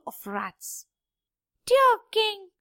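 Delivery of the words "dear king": squeaky rat voice. Acted. Squeaking rats greet the king.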